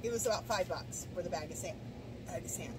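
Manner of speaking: speaking with the hiccups. Real, not acted. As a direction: hiccups interrupt the phrase. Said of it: "Excuse me, I got the hiccups".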